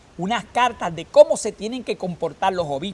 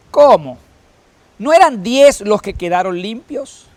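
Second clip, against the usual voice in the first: loud, higher, slow questioning rebuke; Jesus asking; 5 semitones higher, 10 dB louder than usual. Acted. Jesus asking the healed Samaritan about the nine, loud. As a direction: demand to know where the others went. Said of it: "Entonces dijo Jesús".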